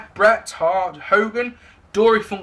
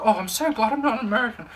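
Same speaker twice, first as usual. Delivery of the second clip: smug thought; 3 semitones higher, faster than usual. Retold or imitated. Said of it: "thinking to myself".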